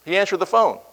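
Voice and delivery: a faint mock of the champ's phone voice; hint of Ali. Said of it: "You know that voice".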